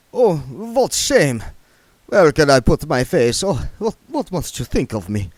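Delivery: vampire mortified before the dwarves; ashamed vampire. Acted. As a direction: lament your lapse. Otto ashamed after biting rat.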